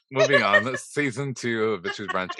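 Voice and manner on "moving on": chuckling through the words; laughing. Real, not acted. Laughing, moving on.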